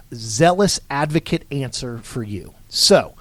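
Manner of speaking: radio announcer voice. Acted. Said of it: "do it in my best host voice".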